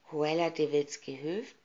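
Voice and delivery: shaky, frightened echo of the name; trembling. Acted. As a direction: tremble as you repeat it. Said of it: "bebte Perdita".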